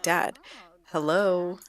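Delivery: put-on mildly exasperated kids wanting attention; kinda aggravated. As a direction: prod an oblivious dad for notice. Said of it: "the kids are all kinda aggravated".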